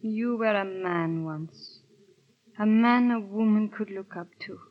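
sad lament. Acted. Wife's sad lament to husband.

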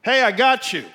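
loud, high cry from above; voice from heaven. Acted. God answers the man on the branch, crying out. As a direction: call down to someone far below. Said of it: "a voice from heaven cried out".

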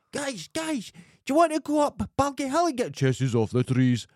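high-pitched excited lad calling his mates; squeaky-high, loud, eager schoolboy impression; boyish enthusiasm. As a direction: imitate an overexcited boy with unbroken voice. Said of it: "he was full of enthusiasm".

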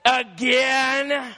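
mock-exasperated, breaking into a laugh; exasperated eye-roll. Shown as a demonstration. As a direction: act out an annoyed sigh. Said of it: "It could be body language".

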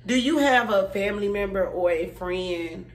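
salesy infomercial pitch. Acted. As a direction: ask it like a TV ad host. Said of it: "it sound like an infomercial".

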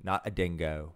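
put-on low, soft Australian accent; playful imitation Australian accent; mock Australian accent. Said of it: "Pretty good accent, by the way".

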